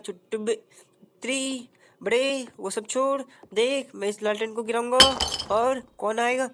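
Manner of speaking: lightly voiced cheeky sidekick; Utri Bade voice. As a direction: stretch the name slowly, like a know-it-all buddy. Answering character voice.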